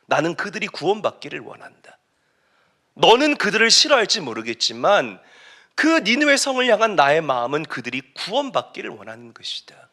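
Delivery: earnest appeal, settling to a hush; God. Acted. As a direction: plead gently, letting the last word fade. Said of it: "하나님이 요나에게 이렇게 말씀하세요". (간절히 호소하다 잦아드는 목소리)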